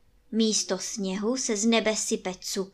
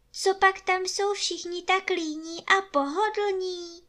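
put-on high, light girl's voice, puzzled; a young girl asking in surprise; curious child voice; wondering little girl; 9 semitones higher than usual. A narrator's reading. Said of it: "podivila se Martička".

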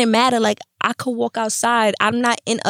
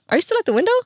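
imitating mom; 9 semitones higher, much faster than usual. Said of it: "She's like".

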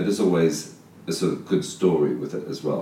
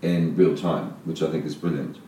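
cave echo. Real, not acted. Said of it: "the first twenty minutes sound like we're in a cave".

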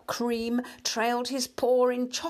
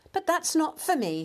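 lightly voiced mouse, higher pitch; country mouse to himself; 8 semitones higher, 3 dB louder than usual. A narrator's reading. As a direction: muse aloud in a higher little mouse voice. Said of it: "he said to himself".

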